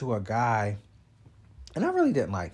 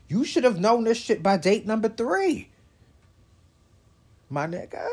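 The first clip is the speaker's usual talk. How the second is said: raised, higher exasperated scolding; louder fed-up rant; exasperated call-out; 10 semitones higher, 4 dB louder than usual. Real, not acted. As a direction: tell them off, loud and high. Scolding outburst at a dater.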